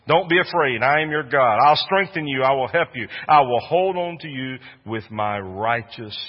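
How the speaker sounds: scripture shouted as a rally cry; loud proclamation. Shown as a demonstration. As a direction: proclaim it boldly. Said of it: "same scripture said twice".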